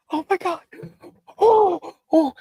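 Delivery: high, loud panicked gasps; hammed-up high panicked daughter; mock freaking out. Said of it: "She's freaking out".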